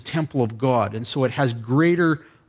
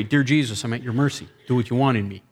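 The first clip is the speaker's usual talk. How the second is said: prayer demo; 3 semitones lower, faster than usual. Shown as a demonstration. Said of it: "And you pray this way".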